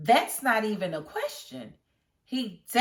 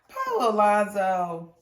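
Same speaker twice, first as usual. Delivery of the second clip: laughing pity; 5 dB louder, slower than usual. Real, not acted.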